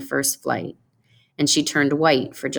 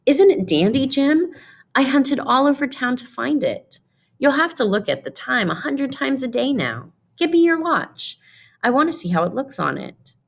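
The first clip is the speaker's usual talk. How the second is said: much higher, bright eager voice; 10 semitones higher than usual. Acted. Della eagerly offers Jim his present, high and excited. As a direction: show off the gift, bursting with eagerness.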